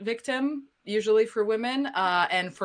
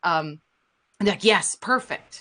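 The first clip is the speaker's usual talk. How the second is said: normal talking voice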